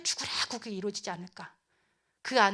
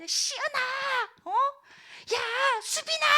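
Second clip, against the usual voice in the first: very high, stretched-out names; straining high call; desperate calling; 13 semitones higher, slower than usual. Acted. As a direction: hail each child urgently. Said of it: "하나님이 절박하게 막".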